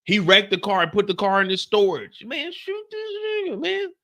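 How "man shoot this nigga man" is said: exasperated yell. Retold or imitated. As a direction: beg the show to do it. Yelling at the TV.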